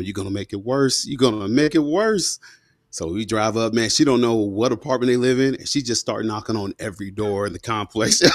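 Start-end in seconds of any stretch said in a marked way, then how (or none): 1.1-2.4 higher, slow and pleading; desperate plea. Retold or imitated. Son begging his mom not to confront them, higher and slow. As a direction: beg her slowly, dreading it.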